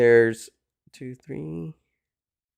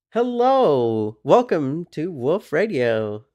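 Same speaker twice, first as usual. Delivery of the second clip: excited host welcome; 3 semitones higher, 3 dB louder, slower than usual. Real, not acted. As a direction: gasp then high welcome. Gasped greeting, show intro.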